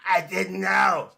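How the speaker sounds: drawn-out mock "I didn't know"; mocking catchphrase. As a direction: imitate her excuse, stretching it out mockingly. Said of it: "Roxy's catchphrase is".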